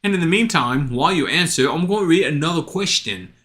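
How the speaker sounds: hammed-up Cockney-style British accent; crappy British accent. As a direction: put on a bad, cheery British accent. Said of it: "I do a crappy British accent".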